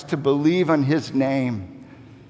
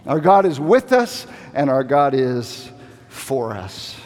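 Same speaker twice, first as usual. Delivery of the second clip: declared; 4 semitones lower than usual. Shown as a demonstration. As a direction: proclaim it with rising force.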